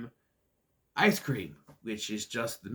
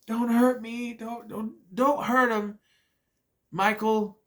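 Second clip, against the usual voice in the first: mock pleading; 8 semitones higher, slower than usual. Pleading in a retold scene.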